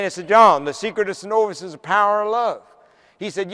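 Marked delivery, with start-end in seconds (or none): 0.3-2.6 Southern drawl. Retold or imitated. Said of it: "Could you say that again?".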